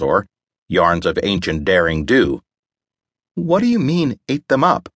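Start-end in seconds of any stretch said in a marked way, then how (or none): 3.4-4.9 surprised question. A narrator's reading. Belle asks, startled.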